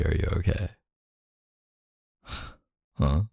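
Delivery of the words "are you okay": softer, sincere repeat; really mean the question this time; quietly asking a drunk girlfriend if she is really okay; serious. Acted. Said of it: "No, like, seriously".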